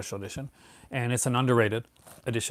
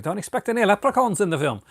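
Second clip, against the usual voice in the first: put-on a clumsy, much higher stab at a British accent; horrible UK accent; 9 semitones higher, 5 dB louder than usual. Warning viewers off the film in a bad UK accent. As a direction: mangle a UK accent on purpose, pitched way up. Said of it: "Oh my God, what a horrible accent".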